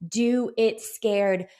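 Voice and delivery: very slow, stretched affirmation; emphatic motivational mantra. Shown as a demonstration. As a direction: lay each word down deliberately. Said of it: "the other mantra".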